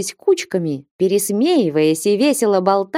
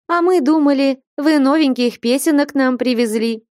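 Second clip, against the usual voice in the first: displeased; 7 semitones higher than usual. Acted. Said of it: "недовольным голосом молвила Флёнушка".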